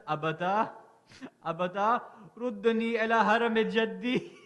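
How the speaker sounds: loud, rising plea to her father; pleading child. Acted. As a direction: beg him, voice straining.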